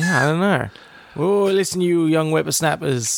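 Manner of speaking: lightly voiced grumpy old-timer; a hint of a cranky old grandpa; old prospector. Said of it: "tell the grandchildren".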